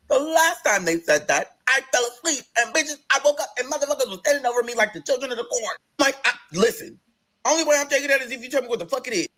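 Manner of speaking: high-pitched indignant retelling. Retold or imitated. Patient refusing unknown medicine from the nurse, indignant.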